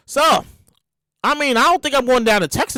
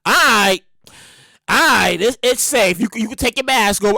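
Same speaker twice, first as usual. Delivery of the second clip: lower, measured official voice; officials' announcement; 4 semitones lower than usual. Acted. Health officials telling the public masks can go, measured announcement. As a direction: give it like a calm health official. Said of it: "Fauci and the people for the C D C be like".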